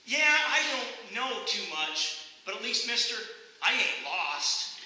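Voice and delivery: lightly voiced slow country kid; unbothered boy. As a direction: drawl the comeback slowly, a hint of boyishness. Acted boy delivering the punchline.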